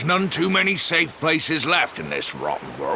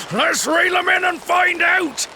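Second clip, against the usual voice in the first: eager fisherman. Acted. Fisherman excitedly reeling in catch.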